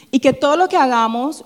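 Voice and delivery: ordinary delivery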